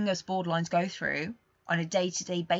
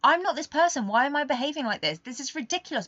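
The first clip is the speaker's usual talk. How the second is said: higher, louder, upset at yourself; distressed self-questioning; 7 semitones higher, 6 dB louder than usual. Retold or imitated. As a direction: protest against your own actions. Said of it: "you're saying".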